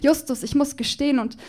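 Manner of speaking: performed slam poem, rhythmic and playful; poem recitation. Acted. Poet performing a love declaration to Justus Jonas on stage, rhythmic and playful.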